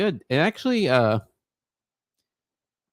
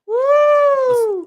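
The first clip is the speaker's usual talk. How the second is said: high whoop; 10 dB louder than usual. Acted. Cheering the wave.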